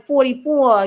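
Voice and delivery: drawn-out Boston "forty-four"; slow, light Boston accent. Shown as a demonstration. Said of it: "only when I get around them do I talk like that".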